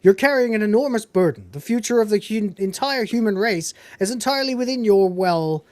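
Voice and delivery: acted lore dump. Character explaining the human race's burden, lightly acted earnest exposition. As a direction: lightly imitate a character laying out the stakes. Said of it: "one of your great lore dumps".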